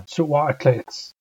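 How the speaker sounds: Suwa'atla'its drawn out very slowly, each syllable separate; slow model pronunciation. Shown as a demonstration. Teacher slowly modelling Suwa'atla'its for learners. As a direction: spell Suwa'atla'its out with the voice. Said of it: "I'm telling you that it's your turn".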